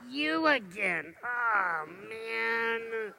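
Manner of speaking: disappointed at the mirror, trailing off; mock dismay. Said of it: "Or do you go".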